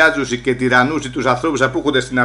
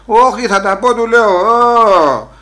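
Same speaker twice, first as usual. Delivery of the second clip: defiant raised voice; 6 semitones higher, 5 dB louder, slower than usual. Retold or imitated. Defiant reply to hushing friend.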